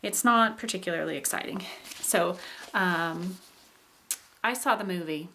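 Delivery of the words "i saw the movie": "I saw the movie" with a plain fall at the end; neutral, unexciting "I saw the movie", dropping to a close; falling contour. Shown as a demonstration. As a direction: unemotional statement, voice falling gently on "movie". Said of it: "just kind of a general fall of the voice".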